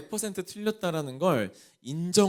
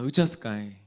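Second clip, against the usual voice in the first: a native Jeolla speaker sighing "으짜스까이"; Jeolla dialect; 6 semitones lower than usual. Shown as a demonstration. Pastor turns the verse into Jeolla dialect for the congregation. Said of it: "전라도 말로 하면 뭘까요?".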